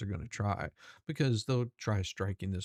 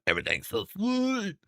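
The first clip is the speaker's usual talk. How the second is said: high, louder mock-dainty voice; hammed-up high girly voice; mock sweet voice; 9 semitones higher, 3 dB louder than usual. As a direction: imitate him all sweet and dainty. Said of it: "It's more like".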